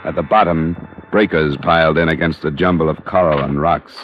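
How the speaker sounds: steady hardboiled narrator voice; story narration. A narrator's reading. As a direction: tell it like a private eye looking back. Detective narrates between scenes.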